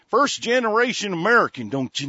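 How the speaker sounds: high, loud mocking imitation of a Hispanic accent; mocking Hispanic accent parody. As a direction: sneer it in a put-on Hispanic accent. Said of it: "talks like this".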